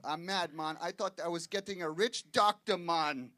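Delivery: West Indian accent, mock complaint; lightly voiced West Indian wife scolding; imitated West Indian wife. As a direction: put on a West Indian lilt without yelling. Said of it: "She was yelling at me today".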